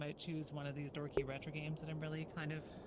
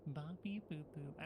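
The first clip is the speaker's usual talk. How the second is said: robot beep boops. Pretend. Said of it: "cursed to talk only in beep boops".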